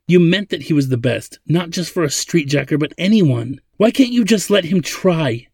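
high, insistent indignant argument; angry. A narrator's reading. Zadeh defends Ladin to her father, angry. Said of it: "Zadeh said angrily to her father".

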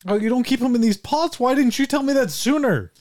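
mock surprise. Old lady feigning shock to Buck about the flour.

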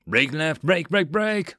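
urgent shouted order; urgent yell. A narrator's reading. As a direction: hammer the order out. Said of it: "Stanford yelled urgently".

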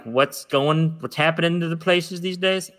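lightly attempted country accent; half-baked country talk, lifting toward the question; a hint of an unconvincing country accent; bad country impression. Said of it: "I didn't do a good impression 'cause I'm not very country".

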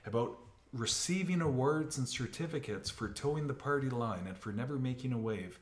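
loud laughing wow, then mocking; laughing disbelief. Officer laughing in disbelief at his major's boast. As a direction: burst out laughing at the absurd brag. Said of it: "And I go".

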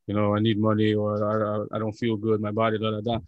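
a hint of the father's complaining voice; imitating dad. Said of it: "it's what he always says".

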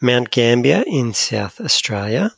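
South African accent, slow. Shown as a demonstration. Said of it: "saying South Australia with a South African accent".

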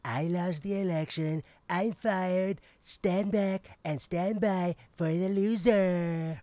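high, loud mock-American proclamation; attempted American accent. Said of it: "I try speak American".

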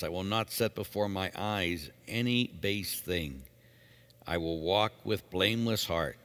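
measured responsorial psalm reading; psalm recitation. Acted. Reader leads the psalm and its refrain, measured recitation. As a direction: recite verses evenly, returning to a steady refrain.

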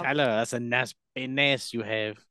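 mock French accent. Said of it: "I'll do it".

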